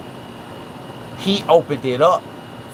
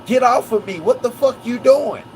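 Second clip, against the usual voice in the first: high-pitched, indignant outburst; imitating a worked-up man in a scuffle; acted angry protest; 8 semitones higher than usual. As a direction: protest as if being roughed up. Acts Nolan being shoved in fight.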